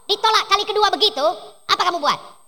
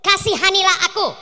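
crying out for mercy. Acted. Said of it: "perempuan Kanaan dan berseru".

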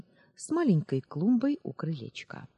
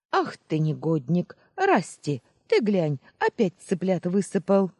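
put-on loud scolding old woman, higher at the name; ringing shout; 4 semitones higher, 7 dB louder than usual. Grandmother shouting at her grandson over the chicks, loud scolding. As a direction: bellow at the boy over the spilled chicks. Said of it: "звонко крикнула".

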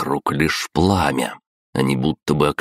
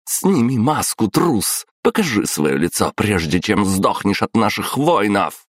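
выше, с вызовом и презрением; бросить вызов трусу в маске; гневная угроза; 6 semitones higher than usual. A narrator's reading. Императрица угрожает незнакомцу. (императрица в гневе требует снять маску)

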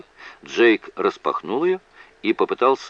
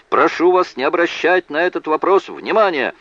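lightly voiced judge, higher pitch; judge instructing jurors; 10 semitones higher, 4 dB louder than usual. A narrator's reading. Judge asking jurors to disregard a question, lightly acted instruction. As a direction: address the jury in a lightly raised official voice. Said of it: "обратился к присяжным судья".

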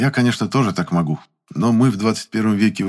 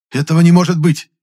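loud, high outraged shout; indignant cry; 10 semitones higher, 8 dB louder than usual. A narrator's reading. Valentin refusing the test result, shouting high and loud. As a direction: yell it in disbelief. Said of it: "сказал Валентин".

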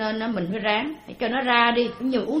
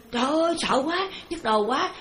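mock frightened cry; 3 semitones higher than usual. Preacher mimics a haunted practitioner with a headache, mock fear. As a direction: act out someone crying out, without real volume. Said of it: "la lên".

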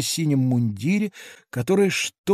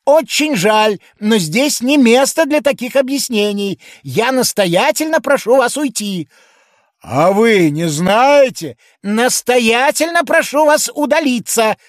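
higher and louder official tone; stern policeman; 8 semitones higher, 5 dB louder than usual. A narrator's reading. Policeman telling the giant to go home, higher and louder. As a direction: order him home like a pompous constable.

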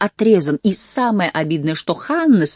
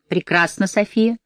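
gloomy; 5 semitones higher than usual. Acted. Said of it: "мрачно проговорила волчица".

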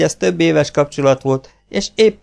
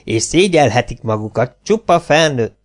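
scolding. Acted. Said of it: "Kerényi Terka közöttük áll".

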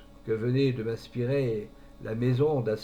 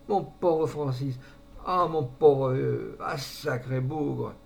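moved; much slower than usual. Acted. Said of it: "fut réellement ému, presque aux larmes".

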